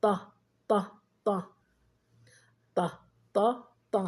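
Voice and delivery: ط said as a short, isolated "ta"; short open "a" after the emphatic t in ط; letter with fatha. Shown as a demonstration. Teacher demonstrating the letter with fatha, ط as short "ta". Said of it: "بالفتح".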